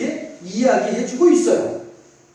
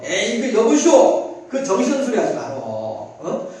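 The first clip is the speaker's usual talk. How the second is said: scoffing objection. Retold or imitated. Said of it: "어떤 사람들은 이렇게도 말을 할 수 있겠죠".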